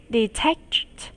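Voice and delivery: breathy unvoiced Detached; whispered word. Shown as a demonstration. Teacher whispers word for drill.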